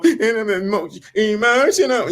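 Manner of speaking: high, whiny mocking voice; sneering mock whimper; mock emotional whine. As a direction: imitate a whiny crybaby.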